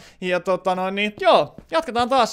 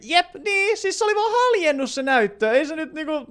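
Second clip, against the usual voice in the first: high protest; 8 semitones higher than usual. Real, not acted. Defending his own cracked screen.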